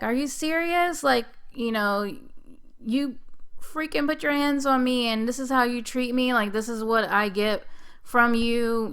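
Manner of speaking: high, outraged yelling at husband; yelling at the husband on the 911 call, furious; retold yelling. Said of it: "yelling at him".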